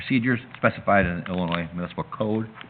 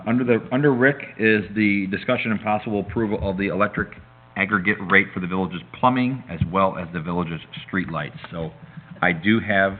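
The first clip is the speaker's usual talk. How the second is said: talking around a piece of gum; words slightly blurred by gum in mouth; chewing gum; 2 semitones higher, 3 dB louder than usual. Real, not acted. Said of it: "Gotta get rid of this gum".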